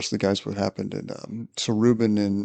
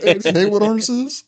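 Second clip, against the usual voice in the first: much higher, louder, cracking up; laughing punchline; 11 semitones higher, 6 dB louder than usual. Retold or imitated. Teller laughs through a coworker's prank line. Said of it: "It's like".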